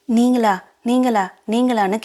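disbelieving question. Acted. Prema's mother doubting who has called, mildly disbelieving.

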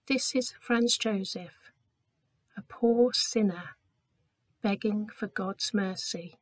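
humble plea. Acted. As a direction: beg for mercy on bended knee. Servant kneels, humble confession.

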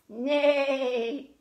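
drawn-out spoken neigh; horse neigh. Acted. Storyteller naming the horse to children, imitated neigh. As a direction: stretch out a mock neigh.

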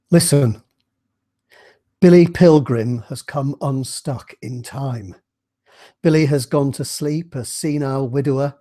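reading aloud from a novel, deliberate pace; story reading. A narrator's reading. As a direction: read the novel aloud to listeners. Reads Slaughterhouse-Five aloud.

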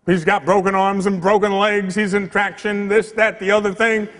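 a worried mother reporting bad news; distressed mother. Mother phoning the priest about her son's wreck, distressed.

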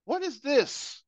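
high, indignant what is this; mock the ungrateful son's outrage; high outraged teen. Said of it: "This was his reaction".

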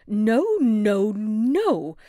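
loud, furious aunt's refusal; shouted no. A narrator's reading. Aunt shouting at the baby in the womb, furious. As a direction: bellow the no's in a tantrum. Helena throws a fit.

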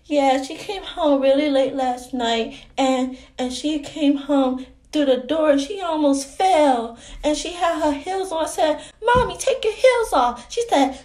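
put-on childlike, chatty explaining voice; little girl. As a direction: talk like a small child telling tales.

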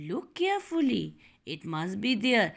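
a hint of calm mother. Teacher voicing mummy calming her daughter, mildly calm. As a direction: settle her gently. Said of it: "always calmly".

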